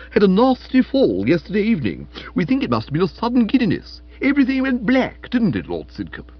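booming aunt, sly insinuation; hearty aunt voice. A narrator's reading. Aunt Dahlia voiced in story.

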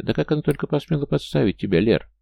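high, indignant outcry; crying out. A narrator's reading. Надя outraged on her friend Лера's behalf, crying out. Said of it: "прокричала Надя".

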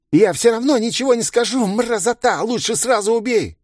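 high, loud desperate cry; defiant shout. Acted. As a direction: spit it out defiantly. Tortured bandit defies.

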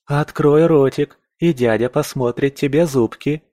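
put-on silly cooing baby talk. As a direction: coo at it like a toddler. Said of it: "продолжал по-дурацки сюсюкать эльф".

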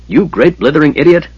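loud angry snarl. A narrator's reading. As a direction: snarl the insult at him. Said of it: "the knight snarled at Caramon".

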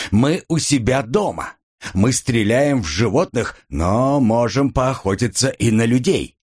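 high-pitched, lordly declaration; haughty boast. Acted. Drunk heir threatening a policeman at home, haughty boast. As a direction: lay it down as lord of the house.

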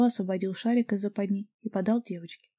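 ordinary delivery

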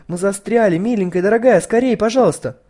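loud, high desperate plea; panicked yelling. A narrator's reading. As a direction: yell for help into the speaker. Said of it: "заорала девочка". (громкий отчаянный крик)

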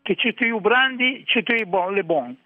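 attempted Ligurian accent, admittedly imperfect; Ligurian dialect. Shown as a demonstration. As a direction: say it in Ligurian dialect as a non-native would. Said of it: "te lo dico in ligure".

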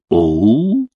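drawn-out, rising imitation "oh"; mock admiring cry. Guest mimicking the admiring cries translators rendered in Chinese, mock admiration. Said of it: "восхищённо вскрикивали".

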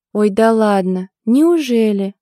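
snide, scoffing disbelief; mocking oh come on; venomous scoff. A narrator's reading. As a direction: sneer it out with a scoff. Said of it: "хмыкнула ядовито".

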